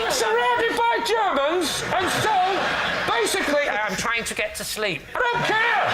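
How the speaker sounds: mock war-story shout. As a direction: bellow the war story through the wall, half laughing. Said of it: "shout them through the wall".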